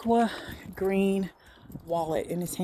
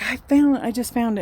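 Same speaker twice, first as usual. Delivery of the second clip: higher, louder start, easing down; retold thief's protest; 3 semitones higher, 3 dB louder than usual. Thief excuses himself to her, higher mock protest. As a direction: imitate him protesting, punching the first words. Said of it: "He didn't say it like that".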